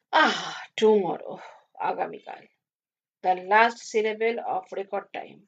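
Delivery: slow, drawn-out declamation; musing recitation. Acted. Doctor quoting verse to the barrister about tomorrow, musing. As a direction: stretch the quoted words out wistfully.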